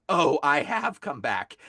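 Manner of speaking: slow, drawn-out mock demon; lightly voiced demon, announcing itself slowly; retelling a possessed man's slow demon voice. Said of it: "His voice changes, and the demon speaks".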